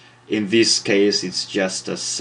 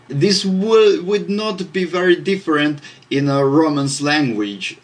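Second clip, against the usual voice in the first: excited pitch jump; 8 semitones higher, 4 dB louder than usual. Real, not acted. Excited aside on Romance languages.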